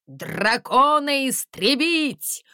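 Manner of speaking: slow, loud barked order; commanding. A narrator's reading. Landysh commanding the musicians to destroy the dragon. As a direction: command the troops. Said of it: "командовал Ландыш".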